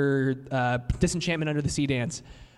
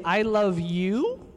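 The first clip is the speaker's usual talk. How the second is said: I love you with rising tune; love you drawn out slowly, rising at the end; rising question tune; 3 semitones higher, much slower than usual. Shown as a demonstration. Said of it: "you could just say".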